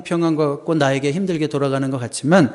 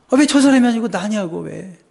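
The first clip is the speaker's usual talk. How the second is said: mock complaint; 5 semitones higher than usual. Preacher voicing a believer questioning God, aggrieved mock protest. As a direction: complain as if wronged, then let it sink.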